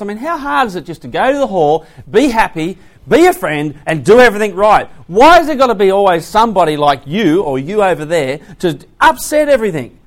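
hammed-up annoyed preacher; mock exasperation. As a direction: throw up your hands at the troublemaker.

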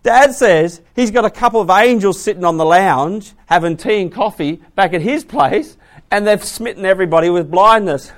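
loud, hammed-up ridicule; incredulous mockery with a laugh at the end; mocking laughter. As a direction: scoff at Dad's story, breaking into laughter. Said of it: "They would have laughed their heads off".

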